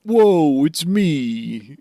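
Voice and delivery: hammed-up Brooklyn accent, high opening; mock Brooklyn accent. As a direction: put on a joke Brooklyn accent. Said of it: "have a Brooklyn accent".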